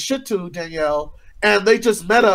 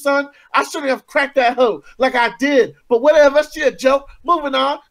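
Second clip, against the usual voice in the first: put-on higher, loud ratchet girl read; 6 semitones higher than usual. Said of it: "read as loud and as ratchet as fucking possible".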